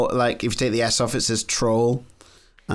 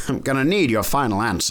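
American accent. Shown as a demonstration. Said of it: "Do that American accent one more time".

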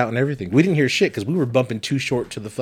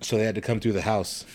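softer whispered aside; 7 dB quieter than usual. Real, not acted. Telling a friend about the police, hushed whisper. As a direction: drop to a whisper for this part.

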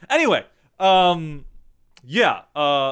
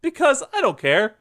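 fired-up outburst; 9 semitones higher than usual. Real, not acted. Suddenly decides to rant.

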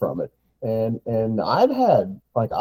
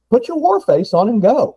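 pump-up call; 10 semitones higher, 5 dB louder than usual. Real, not acted. Pumping up hunters.

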